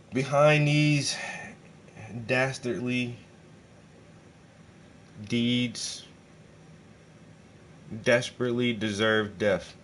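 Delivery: slow, drawn-out villain announcer; booming old melodrama narrator. Pretend. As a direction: savour each alliterative word. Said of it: "Wow, I did it".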